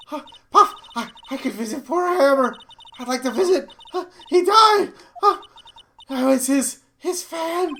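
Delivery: high, loud, stammering between huffs; hammed-up breathless pleading; winded old lady, distressed. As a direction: burst into a mock wail on the death.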